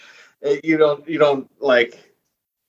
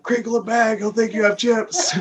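much higher-pitched urgent quote, laughing at the end; acted-out coaxing; 11 semitones higher than usual. Co-host quoting how they lure Eagly back, high-pitched coaxing. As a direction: act out the character, voice pitched way up. Acting out luring Eagly into car.

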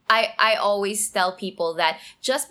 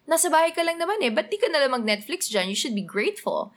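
dismissive reply; 6 semitones higher, faster than usual. Retold or imitated. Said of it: "somebody replies to you going like".

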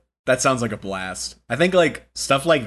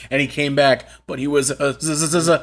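spooky storyteller; 5 semitones higher, 5 dB louder than usual. Acted. Spooky zombie reveal build-up.

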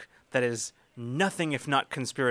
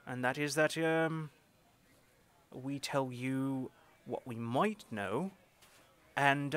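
informant proposing a deal; 3 semitones higher than usual. Acted. Ori offering help on condition, deliberate deal-maker's voice. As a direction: dangle the offer, pause, then name the condition.

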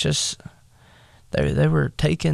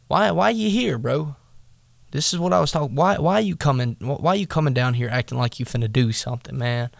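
modern big brother; faster than usual. Retold or imitated. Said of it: "I'm just gonna say it like I would".

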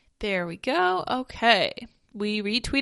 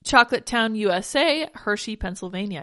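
with hiccups; 4 dB louder than usual. Real, not acted. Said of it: "I got the hiccups again".

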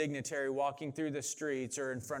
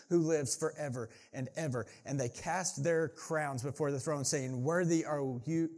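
emphatic, rolling Bible reading; scripture reading; 2 semitones higher, 3 dB louder than usual. Acted. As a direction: proclaim the passage to a congregation. Reads scripture to congregation.

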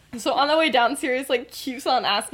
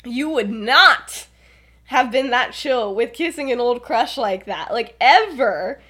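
incredulous challenge; 4 dB louder than usual. Retold or imitated. Lily's acted disbelief.

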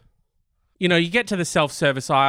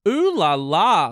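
French flourish; slower than usual. Pretend. Mock French exclamation.

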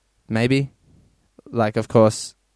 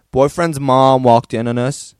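a rough attempt at an American accent, louder; 7 dB louder than usual. Shown as a demonstration. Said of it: "this one's American".

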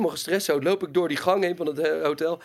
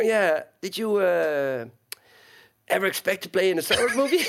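slow motion. Retold or imitated. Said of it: "Ik moet gewoon heel langzaam praten".

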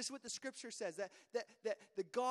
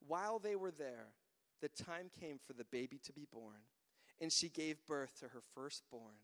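scripture reading; 6 semitones lower than usual. Acted. Reads scripture aloud to congregation.

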